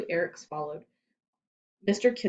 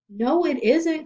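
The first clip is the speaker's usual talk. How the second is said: higher, louder whiny complaint; complaining; 9 semitones higher, 6 dB louder, slower than usual. A narrator's reading. Rondi complaining to Louis, higher and louder. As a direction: sulk it out like a girl who lost her lisp. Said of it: "complained Rondi".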